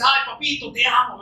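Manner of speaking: lightly mocking syrupy tone; mock sweet talk. Preacher mocking shallow disciples, a touch of syrupy pitch. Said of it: "No es que le dice".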